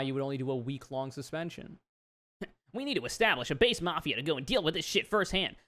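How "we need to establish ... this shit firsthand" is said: a hint of a pundit, barely shifted from own voice; lightly voiced commentator reading a tweet; Ben Shapiro impression. Vlogger reads an extremist tweet as a lightly voiced pundit. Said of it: "I'm making everybody Ben Shapiro".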